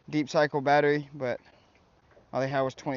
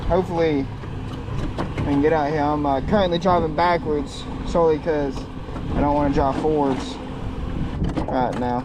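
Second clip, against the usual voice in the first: shouting over wind; 5 dB louder than usual. Real, not acted. This wind is really strong right now.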